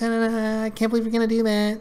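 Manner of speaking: high, fast gushing mock; high-pitched woman. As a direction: rattle it off high and breathless like her. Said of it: "you know, high-pitched voice".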